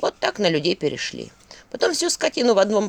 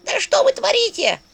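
much higher, shrill-edged outcry; shrieking skull. A narrator's reading. Skull screeching at the ghouls, high-pitched shriek. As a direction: shriek it in alarm. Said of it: "как череп визжать начал".

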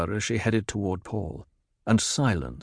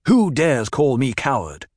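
a touch of a challenge; mild indignant demand; Paul answering the taunt with mild heat; 4 semitones higher, 4 dB louder than usual. A narrator's reading. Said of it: "Paul demanded".

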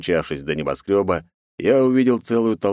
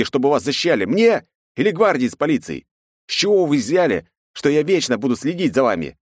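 angry tirade; 6 semitones higher than usual. A narrator's reading. Hero berates the crowd.

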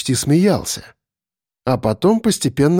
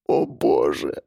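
horrified realisation; 11 semitones lower, 5 dB quieter, slower than usual. A narrator's reading. Captive realises she will be eaten.

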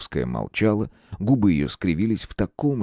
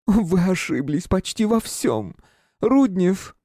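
hysterical woman; 11 semitones higher, slower than usual. A narrator's reading. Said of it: "истерически рассмеялась".

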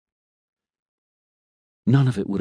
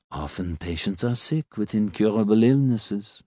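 lightly voiced doctor. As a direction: speak as a measured physician. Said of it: "Doctor Graff said".

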